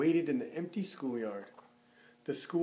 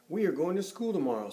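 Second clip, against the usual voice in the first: quick, raised, louder announcement; fast excited announcement; 4 semitones higher, 3 dB louder, faster than usual. Acted. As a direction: hurry it out eagerly. Farmer Brown to Duck.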